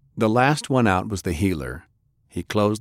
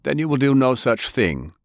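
commanding; 6 semitones higher than usual. Acted. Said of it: "the richest man in the world commanded".

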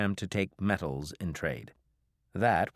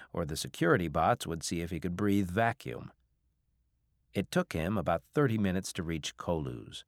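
usual speaking voice

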